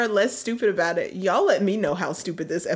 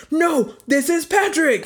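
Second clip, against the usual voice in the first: slow goofy Patrick; 8 semitones higher, 4 dB louder than usual. Pretend. Spongebob quote punchline.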